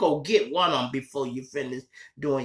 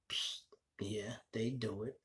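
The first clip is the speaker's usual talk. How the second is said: a hushed whispered aside; 11 dB quieter than usual. Acted. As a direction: lean in and whisper it like a secret. Aside about rappers, whispered.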